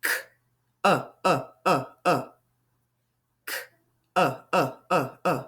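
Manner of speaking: uh repeated to isolate the middle sound; stretched vowel. Shown as a demonstration. Teacher isolating the vowel in cup. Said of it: "The middle sound is the second sound".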